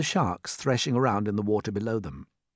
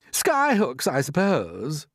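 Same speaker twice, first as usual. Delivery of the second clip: jeering; 6 semitones higher, 5 dB louder, much slower than usual. Acted. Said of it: "jeered the centipede".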